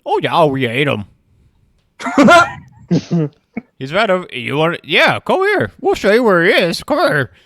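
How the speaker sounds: loud, high wolf; eager wolf leading the way, loud and high. Acted. DM voicing the wolf guide.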